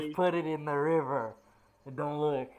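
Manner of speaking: loud, commanding dragon voice; booming arrogant alien overlord. Acted. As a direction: order them like a god.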